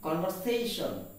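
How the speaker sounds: conversation with a light, weak VER; correct pronunciation. Shown as a demonstration. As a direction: say conversation as "kon-ver-SAY-shun". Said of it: "It is conversation".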